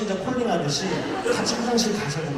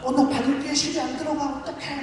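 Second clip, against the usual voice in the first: high-pitched helpless fretting, fading softer; mock lament; 10 semitones higher, 4 dB quieter than usual. Recruit struggling to thread a needle, high comic lament. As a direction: imitate a recruit fussing helplessly. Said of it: "막 이러면서 막 탄식하고".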